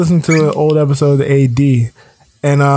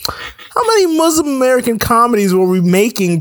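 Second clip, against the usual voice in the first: sarcastic question; 4 semitones higher than usual. Retold or imitated. Sarcastic retort quoted.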